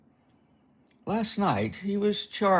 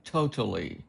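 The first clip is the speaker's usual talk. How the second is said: flat mocking echo of totally; deadpan "totally" dripping with sarcasm; sarcastic mimic. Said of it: "Yes, Chad, totally".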